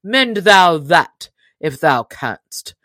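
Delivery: mock-proud slow taunt; slow taunting dare. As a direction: lean on it, daring him to match. Stranger taunting after shot.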